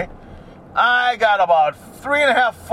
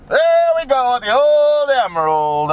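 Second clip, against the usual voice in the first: excited; 6 semitones higher, 3 dB louder than usual. Acted. Greeting a car, showing off.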